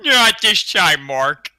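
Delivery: lightly voiced Peter Griffin; a hint of Peter Griffin's voice; Peter Griffin impression. Showing what Peter sounds like, light impression. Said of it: "Peter Griffin sounds like".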